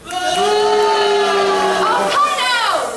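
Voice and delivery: exasperated at the crowd; mock exasperated. Chides audience for not booing.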